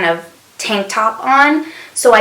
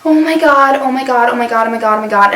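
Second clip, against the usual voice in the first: acted alarm that winds down; freaking out; 3 semitones higher, faster than usual. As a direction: repeat it in a mild retold fluster. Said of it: "like, freaking out".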